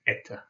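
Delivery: eta said with stress on the E and the O as an A; Russian word eta. Shown as a demonstration. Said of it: "the O again is pronounced as an A".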